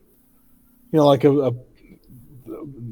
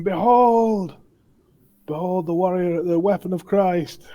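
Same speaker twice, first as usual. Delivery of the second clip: raised, higher proclamation in character; mock battle scream; 5 semitones higher than usual. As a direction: declaim it like a holy warrior's cry. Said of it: "and scream".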